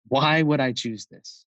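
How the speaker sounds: re-enacted intensity, drawn out on the why; intense, not angry. Brother answering whether it's a choice, intense. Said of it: "not angrily, but really intensely".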